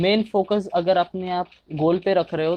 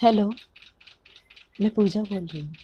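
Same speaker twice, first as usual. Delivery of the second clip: put-on light girly voice, a touch higher; man doing a woman's voice; 4 semitones higher, 3 dB quieter than usual. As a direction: softly play a young woman on the phone. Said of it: "लड़की की आवाज़ निकाली थी".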